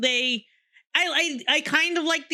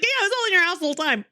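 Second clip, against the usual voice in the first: casual reveal; 4 semitones higher, much faster than usual. Retold or imitated. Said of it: "It's like".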